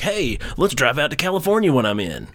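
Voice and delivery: mock-eager, lifted pitch; eager suggestion. Visiting friend proposes a road trip to his host, eagerly. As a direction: toss it out like a breezy plan.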